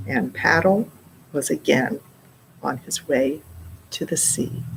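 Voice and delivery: gentle storybook narration; reading to children. A narrator's reading. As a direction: read it like a bedtime story. Reads picture book to child.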